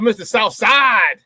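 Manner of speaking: slow, drawn-out shouted nickname; hype announcement. Real, not acted. Host hyping a viewer's nickname on air, shouted slowly. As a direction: announce him like a ring entrance.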